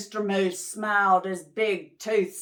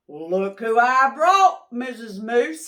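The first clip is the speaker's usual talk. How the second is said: excited; 8 dB louder than usual. Acted. Mister Moose presents his guests.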